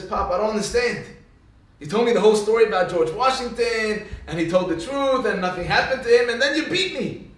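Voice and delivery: mock child's complaint climbing in pitch; aggrieved protest. Beaten son asks Pop why, aggrieved protest. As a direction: build to a high, wronged last phrase.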